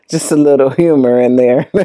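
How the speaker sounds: light laugh in the voice; amused chuckling. Real, not acted. Owning up to her joke, real amused chuckle.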